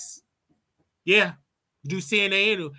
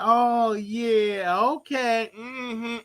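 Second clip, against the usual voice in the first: brush-off; 5 semitones higher, much slower than usual. Retold or imitated. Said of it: "I'm like".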